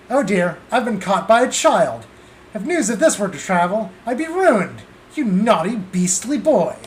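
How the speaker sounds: a hint of a prim British gentleman caught out; lightly done British accent, fussing over being caught. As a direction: drop the southern act for a mildly flustered British voice. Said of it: "your accent was as fraudulent as your coins".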